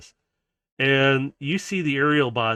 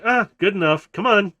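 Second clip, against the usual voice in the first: raised, louder rallying call; urging along; 7 semitones higher, 6 dB louder than usual. Acted. Kiara hurries Howler along to the fight, urging. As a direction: hurry them up, high and loud.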